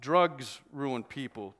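very slow, pointed and tense; losing patience. Acted. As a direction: bite each word slowly. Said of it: "starting to lose his patience".

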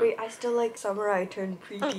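"Summer I Turned Pretty" said through a laugh; laughing at the spelling suggestion. Real, not acted. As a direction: giggle through the title. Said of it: "The spelling suggestion".

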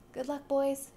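a parting cry to the departing creatures; cried out. Acted. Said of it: "he cried".

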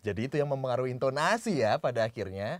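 "intonasi" lifted and stretched; penekanan di tengah. Shown as a demonstration. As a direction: lean on "intonasi" in mid-sentence. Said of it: "Lo pindahin-pindahin penekanan juga". (tekankan "intonasi" di tengah kalimat)

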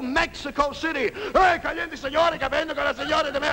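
high, rapid-sounding mock Spanish cheering. Mexico City fight crowd cheers, mock Spanish yelling. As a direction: holler in hammed-up Mexican Spanish.

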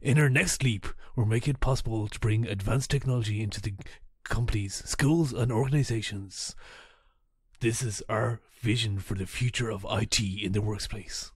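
loud, dramatic trailer narration; movie trailer voice. Retold or imitated. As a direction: read it like an epic film trailer. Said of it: "almost sounds like the movie trailer".

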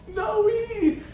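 high, drawn-out delighted call; excited calling. Real, not acted. Calling out to arriving son.

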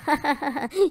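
short, gloating chuckle; gloating laugh. Acted. Attacker pleased with the smoke bomb, gloating laugh. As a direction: laugh at the trick working.

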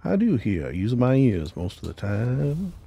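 put-on playful southern accent. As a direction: echo the NPC's southern accent. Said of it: "he does that accent".

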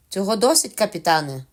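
Long John calling out cheerfully to the captain; cheerful exclamation. Acted. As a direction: sound pleased, a jolly pirate. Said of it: "весело вигукнув Довгий Джон".

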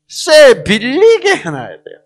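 경상도 사투리로 느리고 크게; Gyeongsang dialect. Shown as a demonstration. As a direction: stretch out the Gyeongsang saying, loud and slow. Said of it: "경상도 말로 어떻게?".

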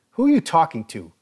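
mock demand. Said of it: "Grossman demanded".

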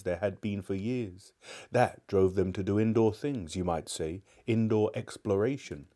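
put-on measured children's storybook reading; story narration. A narrator's reading. Narrator introducing Polly and the grubby boy, story narration. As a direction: tell the tale clearly to young listeners. Reads a children's novel aloud.

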